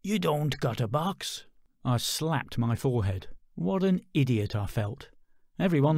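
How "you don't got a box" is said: gleeful man. Acted. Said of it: "gleefully helped me".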